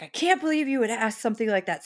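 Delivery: fast, indignant retold outrage; mock upset crowd. Street crowd scolds the dreamer, fast and indignant. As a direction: scold them like a shocked crowd. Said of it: "everyone on the street got upset".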